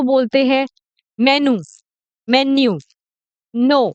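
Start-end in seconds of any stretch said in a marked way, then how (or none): 1.2-1.6 "मेनू" with plain noo ending; wrong pronunciation. Shown as a demonstration. Teacher showing what many people say, mispronounced "मेनू" ending in noo. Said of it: "ये गलत है". 2.3-2.8 "मेन्यू" run together as men-nyoo; wrong pronunciation. Shown as a demonstration. Teacher showing a second common mistake, mispronounced "मेन्यू" as men-nyoo. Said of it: "ये गलत है".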